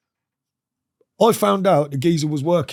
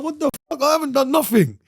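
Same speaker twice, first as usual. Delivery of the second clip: much higher, a disbelieving retold cry; shocked outburst; 9 semitones higher than usual. Accused of a robbery, he cries out high in disbelief. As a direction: throw it up high in outrage. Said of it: "I'm like".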